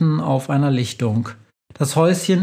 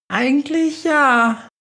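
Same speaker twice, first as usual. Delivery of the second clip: high, slow mouse voice; squeaky mouse voice; 12 semitones higher than usual. Acted. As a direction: answer in a tiny squeaky voice. Mouse answers Globus.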